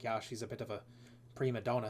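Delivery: quiet, hushed voice. Recounting what a woman said about someone, the speaker is retelling a quiet remark. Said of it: "Katrina sort of like gets real quiet".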